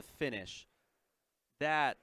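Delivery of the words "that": out of breath. Real, not acted. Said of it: "I am out of breath".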